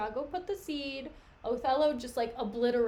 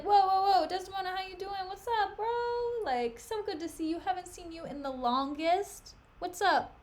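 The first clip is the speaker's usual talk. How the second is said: a hint of a breezy bro, higher and quick; casual bro greeting; 4 semitones higher than usual. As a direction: greet her like a chummy bro. Iago voiced as casual bro.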